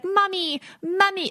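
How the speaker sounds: high-pitched mock Spanish accent; imitated Spanish accent. Retelling a celebrity family's talk, mock Spanish accent. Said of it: "went straight up into a Spanish accent".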